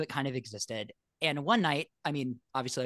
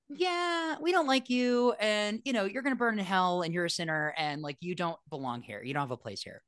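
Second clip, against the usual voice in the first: mocking religion's voice; 5 semitones higher than usual. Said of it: "religion has basically always said".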